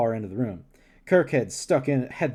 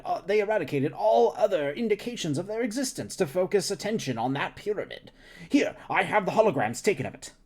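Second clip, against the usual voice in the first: lightly voiced eager scientist; 5 semitones higher than usual. Scientist character continues.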